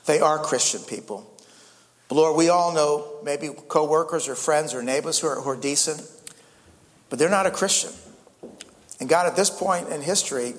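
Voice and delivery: closing prayer. Acted. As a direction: pray over the congregation, sincere and steady.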